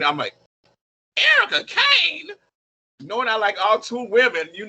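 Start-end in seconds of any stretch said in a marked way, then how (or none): 1.2-2.3 high, slow incredulous echo of the name; can't believe the nickname, pitched way up; shocked disbelief at the nickname. Retold or imitated.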